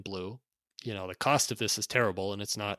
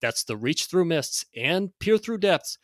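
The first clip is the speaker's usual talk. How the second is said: loud, high hard-sell pitch; carnival barker; 6 semitones higher, 4 dB louder than usual. Acted. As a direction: hype it like a fairground barker. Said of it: "read this in sort of a carnival barker".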